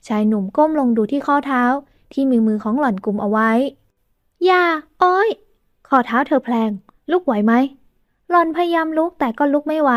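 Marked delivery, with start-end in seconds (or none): 4.4-5.3 pained cry. A narrator's reading. Ankle touched, cries pain.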